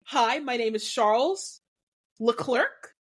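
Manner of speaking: lightly imitating Leclerc's Monegasque accent; a hint of a French-Monegasque lilt, rising at the end. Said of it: "Charles has on camera said that his name".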